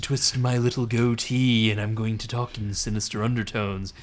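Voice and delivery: lightly hammed sinister villain; a hint of a scheming cartoon baddie; mustache twirling villain. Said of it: "mustache twirling villain".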